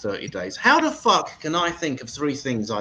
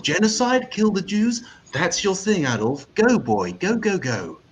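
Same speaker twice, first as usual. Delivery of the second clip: mock positive; 3 semitones higher than usual. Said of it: "It's always fucking positive".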